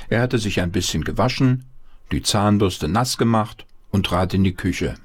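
plain reading voice

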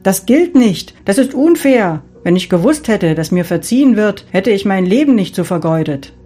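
indignant protest. Acted. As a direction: protest bitterly at the unfairness. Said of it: "rief eine Stimme".

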